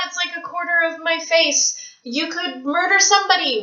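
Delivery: high half-shouted gush; delighted squeal. Real, not acted. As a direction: squeal at how big it is. Marvelling at book size.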